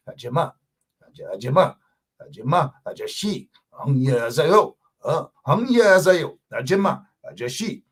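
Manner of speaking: passionate demo of Korean greetings. Shown as a demonstration. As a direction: say the Korean words with showy passion. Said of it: "you gotta say it with passion".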